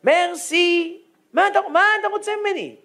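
high, quick broken mock French. Rabbi fumbles fake French at the weeping Frenchman. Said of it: "רק צרפתית".

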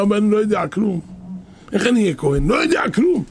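acted-out objection jumping high at the end; helpless protest. Unlearned brother objecting to being made priest, helpless protest. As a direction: protest your ignorance, pitch leaping on the last words.

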